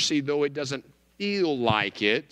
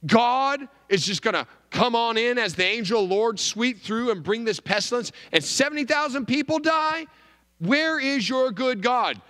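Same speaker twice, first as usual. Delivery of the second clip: a lightly voiced indignant skeptic, rising higher; mock skeptic; 6 semitones higher than usual. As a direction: play the outraged doubter, a touch hammed-up. Skeptic's objection voiced in sermon.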